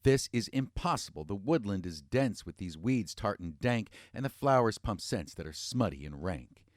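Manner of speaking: fed up, spits it out at the weeds; frustrated grunt. Acted. Boris lost in the woods, grumbling in mild frustration.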